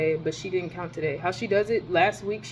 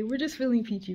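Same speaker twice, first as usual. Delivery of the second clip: sarcastic; 4 semitones higher, 4 dB quieter than usual. Real, not acted.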